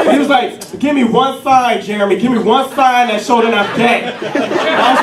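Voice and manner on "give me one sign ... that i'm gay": higher-pitched indignant demand; acted, affronted insistence; offended friend. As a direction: challenge him in mock offense. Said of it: "he got offended and shit".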